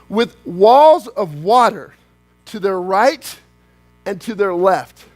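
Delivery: slow, weighty reading with pauses; dramatic reading. Acted. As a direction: let each phrase land.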